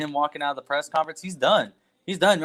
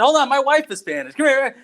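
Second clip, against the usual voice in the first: put-on excited older gentleman; 10 semitones higher, 3 dB louder than usual. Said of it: "And he said".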